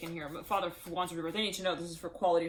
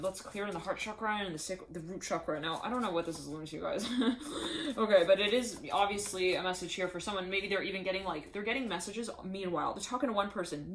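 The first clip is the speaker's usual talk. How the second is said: ordinary talk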